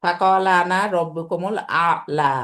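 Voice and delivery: slow, measured recitation of the verse; slow Quran recitation; Quranic recitation. Shown as a demonstration. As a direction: recite the verse slowly and evenly. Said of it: "এটা ফেরাউন দাবি করছিল".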